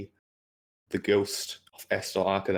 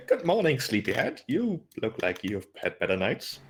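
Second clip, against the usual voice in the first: mischievous; 2 semitones higher than usual. Acted. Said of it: "like, mischievous".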